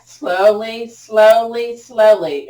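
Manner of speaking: slowly, stretched out and loud; emphatic slow. Real, not acted. Teacher bringing hands back to the chest, emphatically slow. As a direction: drag each repeat out to hold them back. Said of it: "Did I say slow? I meant to say slow".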